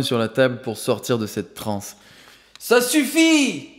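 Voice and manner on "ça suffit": a high, slow roar ripping out. Acted. Thug roaring across the table to stop the trance. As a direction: roar it as you leap up. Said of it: "rugit-il en se levant d'un bond".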